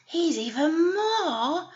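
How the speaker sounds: light, eager little goat pleading with the troll; little goat talking his way past the troll. Acted. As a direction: squeak out the bargain like the smallest goat. Little goat voiced in story.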